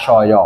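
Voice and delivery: শয় as one glided "sho-yo"; merged pronunciation. Shown as a demonstration. Teacher showing the final joined verb form, merged pronunciation. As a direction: blend the vowels of শয় into "sho-yo". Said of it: "ultimately এটাকে উচ্চারণ করবে".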